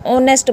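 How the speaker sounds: ऑनेस्ट opening on a vowel; silent H. Shown as a demonstration. Teacher confirming the word for students, silent H pronunciation. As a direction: drop the H, say ऑनेस्ट. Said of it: "H को नहीं बोला जाएगा".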